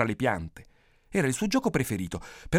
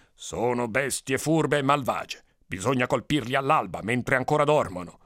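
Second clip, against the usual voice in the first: scheming villager. Acted. First villager proposes dawn attack. (paesano che consiglia, lento e grave)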